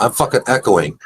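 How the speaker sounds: delayed echo of own voice. Real, not acted. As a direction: repeat yourself as an echo.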